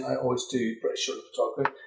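quick, out of the side of the mouth; out of mouth corner. Real, not acted. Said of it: "I'm gonna talk out of the side of my mouth".

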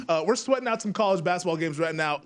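usual speaking voice

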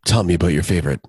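whispered, luring invitation; creepy whisper. Retold or imitated. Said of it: "creepy Jeremy impression".

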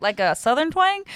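laughing high and loud; half-shouted laughing question. Real, not acted. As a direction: blurt it out through a laugh.

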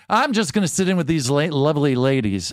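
lightly hammed-up showman; Regis voice. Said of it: "he goes".

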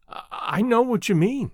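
breaking, stumbling start; a touch of unsteady emotion. Acted. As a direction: falter on the first I. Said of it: "said the girl again, unsteadily".

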